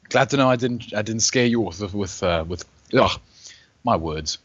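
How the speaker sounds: talking through a mouthful of food; chewing while speaking; mouth full. Real, not acted. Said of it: "Sorry, I'm eating a bit of macaroni cheese".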